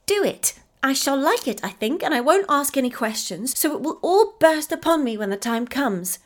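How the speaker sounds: put-on a child agreeing with glee; eager little girl. A narrator's reading. Effie agreeing to Mamma's surprise, high child's voice.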